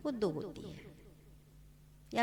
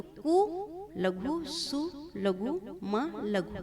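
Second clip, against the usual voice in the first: कु, सु, म each named लघु slowly; slow teacher's syllable count; 3 semitones higher, much slower than usual. Shown as a demonstration. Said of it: "वर्ण को गिनेंगे".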